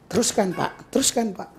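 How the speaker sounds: softly encouraging, easygoing; soft smooth tone. Shown as a demonstration. Preacher showing a smooth approving reply, softly. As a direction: murmur approval gently. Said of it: "Halus kan?".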